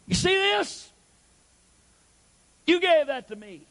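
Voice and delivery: imitating the hurt wife. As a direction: voice the wounded wife showing her ring. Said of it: "And she'll go".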